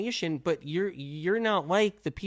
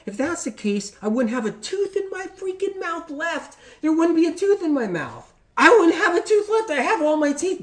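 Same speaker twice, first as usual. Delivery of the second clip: higher and louder, insistent; indignant exclaiming; 12 semitones higher, 6 dB louder than usual. Real, not acted. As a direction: protest it, voice climbing high. Insists lemons never hurt his teeth.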